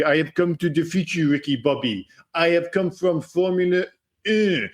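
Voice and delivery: put-on lightly done over-the-top French accent, Jean Girard style; a hint of a hammed-up French racer. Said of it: "over the top French accent".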